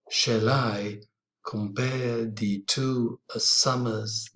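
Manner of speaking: slow, measured reading of the sonnet; teacher reading a sonnet aloud to the class; poetry recital. Shown as a demonstration. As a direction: recite the lines with an even iambic pulse. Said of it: "we can read it in this way".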